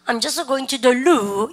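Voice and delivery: very slow, even model sentence; slow drill read. Shown as a demonstration. Teacher reading the example slowly for students to copy. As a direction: spell it out slowly for the class to repeat. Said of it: "시죠?".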